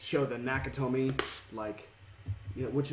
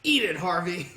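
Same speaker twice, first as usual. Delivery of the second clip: movie quote; 4 semitones higher, 4 dB louder than usual. Retold or imitated. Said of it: "She told him to".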